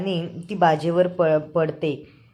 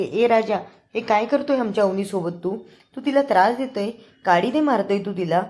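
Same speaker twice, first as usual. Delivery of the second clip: higher, louder accusing tone; angry scolding; 4 semitones higher, 3 dB louder than usual. Retold or imitated. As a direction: tell him off for hurting her. Sister-in-law confronts Raja angrily. (रागाने जाब विचारणे)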